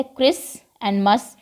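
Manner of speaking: क्रिस and मस said slowly, syllable by syllable; क्रिस and मस broken apart slowly to show the silent t; split into syllables. Shown as a demonstration. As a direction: spell out क्रिस and मस slowly in two parts. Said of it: "क्रिस्टमस तो बोला ही नहीं".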